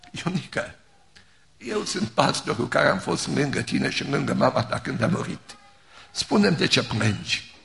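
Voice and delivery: put-on soft, gentle, kneeling beside a child; tender comfort. Pastor kneeling to comfort the grieving boy: soft, tender. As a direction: hush it down to console him.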